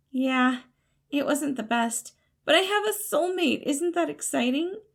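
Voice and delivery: high, bright-eyed cheer hiding fear; forced happy. Acted. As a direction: sound delighted to cover panic. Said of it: "he asked happily".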